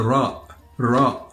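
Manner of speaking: RA with a tapped Arabic r. Shown as a demonstration. Teacher introduces the last letter, tapped Arabic Ra. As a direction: tap the tongue to start RA. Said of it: "this letter is quite different from the R in English".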